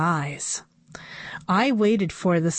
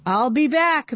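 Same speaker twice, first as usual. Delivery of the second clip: robot head; 7 semitones higher than usual. A narrator's reading. Robot head quoting Terminator.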